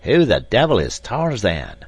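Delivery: loud rough seaman's demand; loud gruff sailor; sailor's cry. A narrator's reading. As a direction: shout it at the others. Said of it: "cried the sailor".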